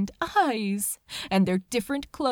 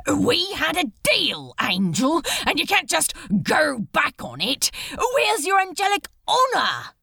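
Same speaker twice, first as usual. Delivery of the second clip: rising to a loud, higher shout by the end; desperate angry plea; 4 semitones higher, 4 dB louder than usual. Acted. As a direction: plead hard, then blow up at the angel. Crowley pleads angel keep deal.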